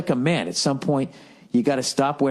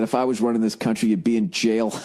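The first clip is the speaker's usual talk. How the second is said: mock Trump jab; 4 semitones lower than usual. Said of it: "He said to Hillary".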